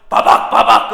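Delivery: imitated digging noise. Preacher imitating the roof being broken open, emphatic noise. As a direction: sound out the hacking at a roof.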